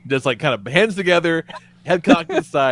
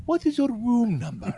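waiter's question; 8 semitones higher, 6 dB quieter than usual. Retold or imitated.

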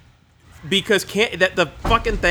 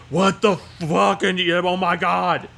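mock astonishment; 4 semitones higher, slower than usual. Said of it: "And he's gonna go".

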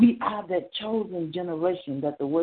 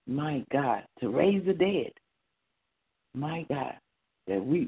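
earnest pastoral prayer, steady and devout; closing prayer. Acted. Pastor praying over the people after the word, devout prayer. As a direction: pray over the church, thankful and sincere.

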